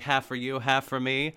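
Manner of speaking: imitated nervous cook, tipping into laughter; mock nervous laugh after the line. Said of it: "The nervous laughter".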